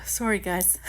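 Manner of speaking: sheepish whisper to the viewers; whispered apology. Real, not acted. Apologizing to viewers after a yawn, whispered. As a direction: breathe it out, embarrassed.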